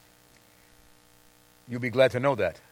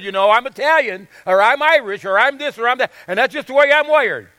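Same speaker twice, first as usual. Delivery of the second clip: self-justifying; 4 semitones higher, 4 dB louder than usual. Retold or imitated. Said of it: "try to dismiss it".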